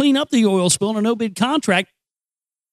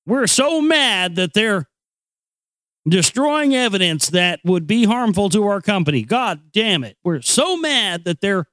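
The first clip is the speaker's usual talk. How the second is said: sarcastic mock outrage. Sarcastic BP fake anger.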